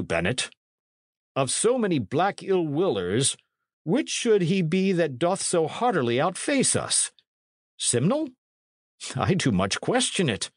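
high, questioning, troubled priest; agitated priest. A narrator's reading. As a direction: fret aloud in a lifted priestly voice.

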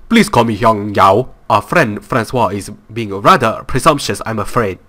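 slow, mixed-up attempt at an Asian accent; slow game boss in a wobbly, unplaceable Asian accent; muddled Asian accent. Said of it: "I don't even know what this accent is".

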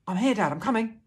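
high, loud answering shout; calling back. A narrator's reading. Boy running to his father, calling back. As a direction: shout that help is coming.

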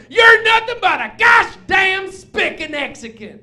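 loud, high, slow redneck shout; hick cowboy. Retold or imitated. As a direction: bellow it like a huge angry cowboy. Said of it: "He goes".

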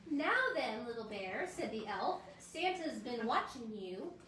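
storybook reading for little ones; reading to children. Acted. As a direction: read it like a bedtime story. Reads a children's book aloud.

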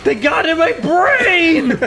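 dumb caveman voice. Acted. Mocking dumb rant.

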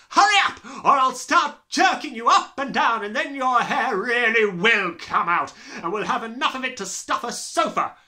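bully him into answering; furious headmistress. Acted. Headmistress threatening the dangling boy.

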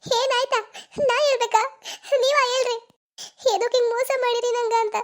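tearful, bitter demand; crying reproach. Acted. Girl crying as she confronts her lover. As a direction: throw it back at him through tears.

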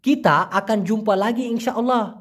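slow, evenly spaced "Kita akan jumpa lagi"; standard careful Malay. Shown as a demonstration. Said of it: "কিন্তু মূলত হবে".

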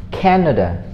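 "Canada" stressed on the first syllable; careful isolated "Canada", falling after the first syllable; model pronunciation. Shown as a demonstration. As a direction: demonstrate "Canada" with the weight on "Can". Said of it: "learn how to say it with me".

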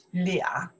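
俩 said as a separate model word; pronunciation of 俩. Shown as a demonstration. Teacher contrasting local and common readings, 俩 demonstrated. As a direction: model 俩 on its own. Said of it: "Also, we say 俩".

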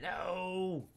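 slow, high, loud drawn-out no; dismayed cry. Real, not acted. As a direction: wail it in dismay. Dismayed game mishap.

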